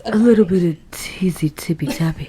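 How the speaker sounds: breathy playful whisper of a tease; teasing whisper. Pretend.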